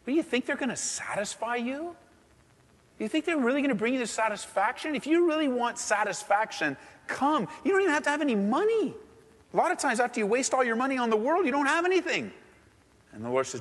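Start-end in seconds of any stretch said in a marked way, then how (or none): 0.0-9.0 impassioned appeal. Pretend. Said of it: "you can go".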